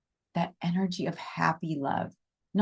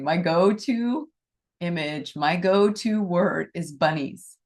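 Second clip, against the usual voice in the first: giggling; slower than usual. Real, not acted. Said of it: "I can't even say it without laughing".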